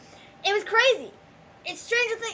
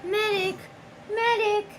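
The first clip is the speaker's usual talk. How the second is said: man down shout; 5 semitones higher, slower than usual. Retold or imitated. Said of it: "Yelling for medic".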